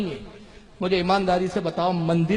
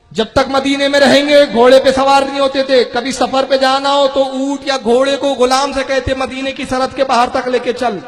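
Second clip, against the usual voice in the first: louder, energetic sermon narration; raised-voice preaching; 4 semitones higher, 7 dB louder than usual. Real, not acted. Preacher telling the crowd of Imam Malik's reverence, raised preaching voice. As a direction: preach it out to the gathering.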